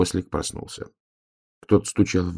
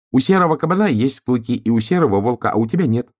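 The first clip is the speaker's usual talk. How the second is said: lightly voiced star, raised pitch; lecturing star; 6 semitones higher, 4 dB louder than usual. A narrator's reading. Star comparing donkey to boar and wolf, lecturing tone. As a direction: point out what someone lacks, pitched up.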